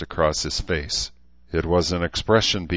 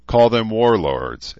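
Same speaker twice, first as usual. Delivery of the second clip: slow, louder, turning it over; musingly; 5 semitones higher, 7 dB louder, slower than usual. A narrator's reading. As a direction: weigh the word as you say it. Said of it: "Edmund said musingly".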